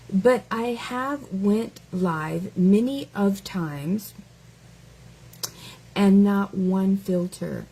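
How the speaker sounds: slow, deliberate mock read; read as written. Shown as a demonstration. Reading the commenter's sentence slowly to mock it. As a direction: drag each word of the comment out. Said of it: "I'm just gonna read it the way you wrote it".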